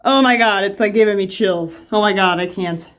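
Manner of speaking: scared, loud and jumpy; rattled, oh-my-God alarm at a bug; real freak-out. Real, not acted. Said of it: "I'm so scared right now".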